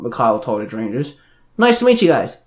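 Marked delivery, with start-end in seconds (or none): 1.6-2.4 friendly, high-pitched greeting; grinning. A narrator's reading. Timothy meeting the other team, grinning. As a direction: greet them with a grin. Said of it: "Timothy grinned".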